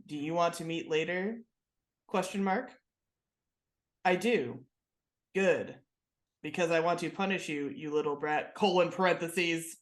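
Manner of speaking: flat monotone read. Retold or imitated. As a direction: read it like a robot, no inflection. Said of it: "reading it in this monotone voice".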